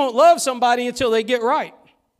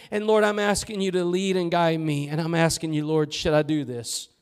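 soft earnest prayer; 6 semitones lower, 4 dB quieter than usual. Acted. Believer's prayer sinking into a soft humble plea. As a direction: lower and softer, an intimate plea.

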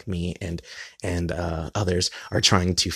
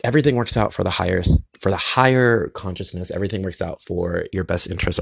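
speaking oddly while holding back a sneeze; 4 dB louder than usual. Real, not acted. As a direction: talk through a held-back sneeze. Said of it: "That's why I'm speaking funny".

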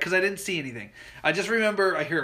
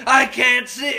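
mock whimper; 6 semitones higher, 7 dB louder, slower than usual. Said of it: "I'm like".

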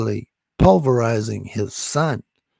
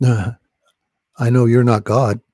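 defiant laugh; 2 semitones lower, 6 dB louder, much slower than usual. Real, not acted. Laughs while defying the demon.

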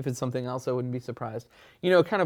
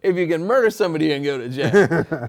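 laughing; 4 semitones higher, 8 dB louder than usual. Real, not acted. Joking reply, laughing.

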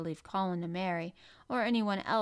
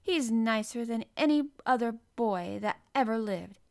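louder, heated defence; fiery retort; 3 semitones higher, 6 dB louder than usual. A narrator's reading. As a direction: defend him with flashing temper. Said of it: "Mary's eyes flashed fire".

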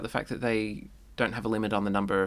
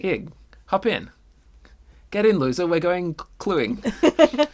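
Regina George; 7 semitones higher, 6 dB louder than usual. Acted. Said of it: "That's Regina George's convertible".

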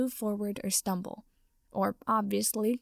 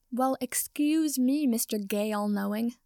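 sarcastic; 2 semitones higher, 4 dB louder than usual. Acted. Draco mocking Potter.

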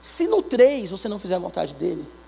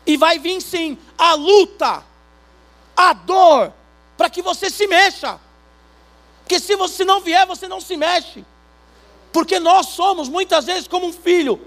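loud, high preaching with music; fiery preaching; 7 semitones higher, 7 dB louder than usual. Acted. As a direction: preach it out to the congregation. Preaching at full force.

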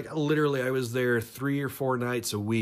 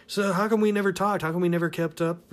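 high voice; 7 semitones higher, 3 dB louder, faster than usual. Retold or imitated. Retelling the Navy woman's question.

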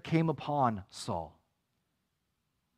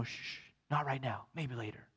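much softer shushing, dropping away to almost nothing; hushing; 3 semitones lower, 12 dB quieter than usual. Acted. Preacher hushing his sinful desires, softly shushing. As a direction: quietly shush it like a child to bed. Hushing one's own flesh.

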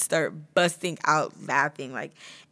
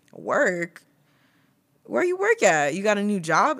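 much higher, loud stunned questions; shocked disbelief; 3 semitones higher, 6 dB louder than usual. Retold or imitated. Learning her friend still has the job, loud shocked questions. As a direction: squeal it out in total shock. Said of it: "And I was like".

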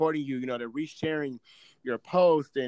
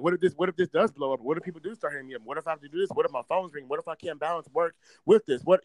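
mock panic; faster than usual. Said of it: "I start freaking out".

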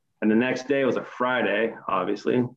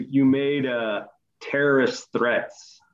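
slow, halting charge at usual pitch; retold accusation; much slower than usual. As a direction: quote a manager's accusation, drawn out. Retold manager's hesitant accusation.

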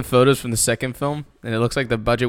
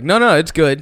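mock insistent; 3 semitones higher, 5 dB louder than usual. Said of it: "movies that are just like".

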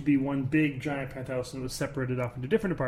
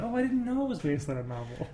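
imitating wife; 4 semitones higher than usual. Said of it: "You said it just like that".

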